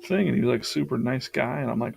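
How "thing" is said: quoting Jason. Retold or imitated. Stranger at wedding greets him.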